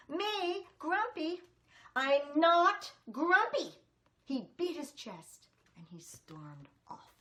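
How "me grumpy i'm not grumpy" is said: loud, high furious denial; angry monkey shouting back; grumpy yell. Acted. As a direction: storm at everyone, fed up. Jim yells at his friends.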